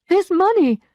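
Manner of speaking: high, loud and firm; cold indignation. A narrator's reading. Emma demanding the lawyer's help, indignant. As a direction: make him pay up.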